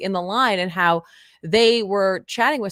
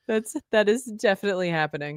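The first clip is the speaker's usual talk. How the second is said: strained, hoarse, tired voice. Real, not acted. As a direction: talk through a voice that's going. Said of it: "I'm, like, losing my voice".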